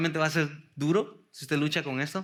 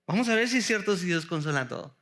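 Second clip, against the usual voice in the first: faster and fuller, pressing on "si"; brisk challenge; faster than usual. Shown as a demonstration. Preacher repeating the challenge to the congregation, faster. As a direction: push "Vamos a ver si es cierto" out quickly and firmly. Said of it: "Bueno, vamos a ver si es cierto".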